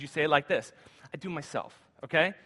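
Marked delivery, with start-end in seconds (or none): 1.1-1.8 put-on quiet, clipped toddler "I do myself" with spunk; sassy toddler. Shown as a demonstration. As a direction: play a stubborn two-year-old. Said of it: "when you're two and you have a lot of spunk and attitude".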